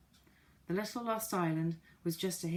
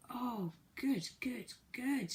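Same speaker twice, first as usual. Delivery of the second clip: happy shout; 6 semitones higher, much slower than usual. A narrator's reading. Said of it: "shouted everyone".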